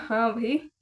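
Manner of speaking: mock him playfully, drawing it out; a light taunting copy of his line; teasing mock. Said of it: "रास्ते में चिढ़ाते हुए आए ना".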